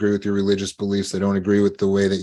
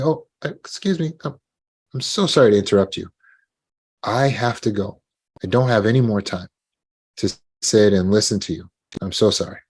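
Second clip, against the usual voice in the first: polite, apologetic cut-in, light and quick; gentle interruption. Shown as a demonstration. Leaving a talker who takes up your time, gently apologetic. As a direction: excuse yourself kindly but firmly. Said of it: "You see how I did that?".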